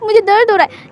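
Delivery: high, whimpering fake pain; milk the pain with a crybaby voice; put-on crying voice. Wing whimpers to Lan Wang Ji while being carried, fake crying. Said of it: "अपना रोते हुए voice बनाते हुए कहता है".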